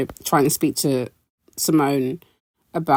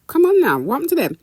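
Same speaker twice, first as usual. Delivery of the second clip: exasperated; 12 semitones higher than usual. Retold or imitated. Scolding arguing housewives.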